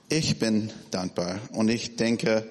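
ordinary talk

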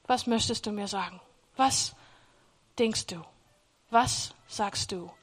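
softly voiced surrendered prayer; humble prayer. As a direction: ask God quietly and humbly. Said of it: "ich hab dann angefangen zu sagen".

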